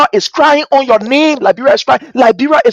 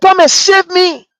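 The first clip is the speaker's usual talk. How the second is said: Liberia pleading; 7 semitones higher than usual. Pretend. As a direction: beg for rescue. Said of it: "Liberia is saying to us".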